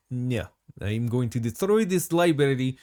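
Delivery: attempted Russian accent. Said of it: "tried to do the Russian accent".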